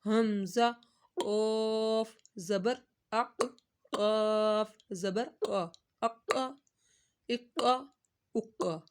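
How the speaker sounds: قاف said full and heavy from the throat; teacher contrasts heavy قاف with thin کاف; heavy qaf. Shown as a demonstration. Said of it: "اس کو موٹی sound میں پڑھنا ہے".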